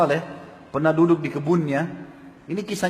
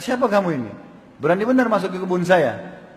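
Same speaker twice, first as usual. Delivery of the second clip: angry challenge; 3 semitones higher than usual. Retold or imitated. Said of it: "Lalu dia marah".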